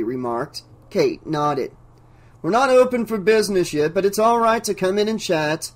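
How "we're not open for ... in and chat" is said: higher, too-pleasant banker voice; sweetly welcoming, oddly out of character; oddly agreeable tone. Acted. Banker calls to visitors from the vault, higher, too agreeable. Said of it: "in an uncharacteristically agreeable tone".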